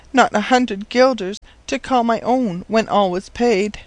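put-on high-pitched girl's voice, sorrowful; forlorn orphan girl. Orphaned girl telling the professor of her father's death, desolate.

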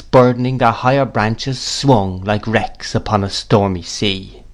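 usual speaking voice

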